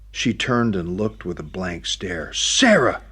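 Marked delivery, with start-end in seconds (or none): 2.3-3.0 a high, loud call after her. Acted. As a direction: call her back as she walks off. Calling after her as she leaves.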